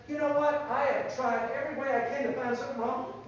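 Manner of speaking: Pilate. Acted. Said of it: "and Pilate said".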